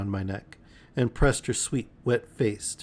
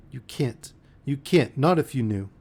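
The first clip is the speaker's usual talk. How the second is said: broken mutter; 4 semitones higher than usual. Acted. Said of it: "muttered in a broken voice".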